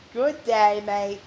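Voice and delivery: put-on a light Australian accent sign-off. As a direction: toss off an Aussie goodbye. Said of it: "That's a good Australian accent".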